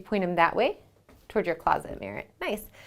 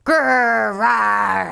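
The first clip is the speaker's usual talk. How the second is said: bear growls; 4 dB louder than usual. Acted. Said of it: "give me some bear growls".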